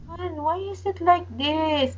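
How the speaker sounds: stunned wife asks why; shocked question. Retold or imitated. Shocked seeing bruises.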